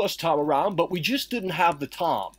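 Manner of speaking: put-on a lightly done, vague British accent; odd put-on British accent. Co-host asks him to say the line again in his accent. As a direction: repeat it in that half-British voice. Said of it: "Is that supposed to be fucking British?".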